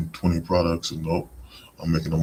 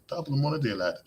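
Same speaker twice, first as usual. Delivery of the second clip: playful high-pitched Irish lilt; Irish impression; 9 semitones higher, 4 dB quieter, faster than usual. Recalling a joke greeting to a coworker, Irish impression. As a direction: do a little jokey Irish accent. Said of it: "doing my little Irish impression".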